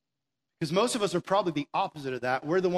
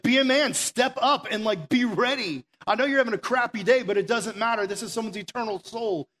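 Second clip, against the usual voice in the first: higher, louder, urgent pep talk; fired-up exhortation; 5 semitones higher, 5 dB louder than usual. Retold or imitated. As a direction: shake a brother awake, hard. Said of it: "he's like".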